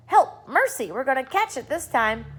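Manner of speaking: high, loud cry for mercy; frightened cry. A narrator's reading. Travelers terrified of the cloud, frightened cry. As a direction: plead in fear of the storm.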